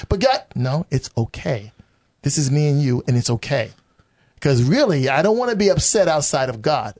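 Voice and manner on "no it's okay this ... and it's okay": God reassuring, slower. Retold or imitated. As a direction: soothe him slowly, as God would. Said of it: "God's like".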